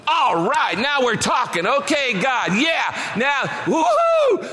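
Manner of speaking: high, loud whoop building to woo-hoo; jubilant cheer. Retold or imitated. Pastor hearing of the advance, high loud jubilant whoop. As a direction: celebrate like a windfall just landed.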